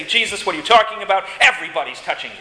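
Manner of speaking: quick, mildly exasperated protest. Acted. Disciples to Jesus in the crowded street, mildly exasperated. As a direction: rattle it off with a touch of exasperation. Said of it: "the disciples are rather exasperated".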